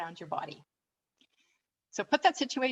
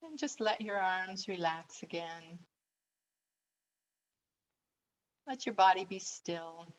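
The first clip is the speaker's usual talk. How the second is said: calm, unhurried relaxation voice; guided meditation. Acted. Coach telling listeners to let the body be still, guided meditation. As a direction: guide them into stillness, pausing between phrases. Leads relaxation after jaw exercise.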